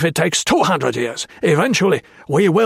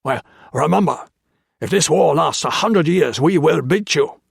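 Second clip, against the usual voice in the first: raised, loud snarling voice; snarled threat; 5 semitones higher, 4 dB louder than usual. A narrator's reading. Japanese officer snarls threats at the prisoners, loud and hateful. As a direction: snarl it out with contempt. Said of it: "he snarled".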